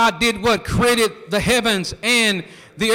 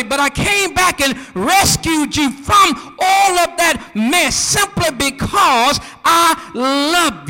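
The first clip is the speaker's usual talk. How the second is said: God voiced in a shout; 4 semitones higher than usual. Preacher voicing God to the church, rising proclamation. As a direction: preach God's words full out.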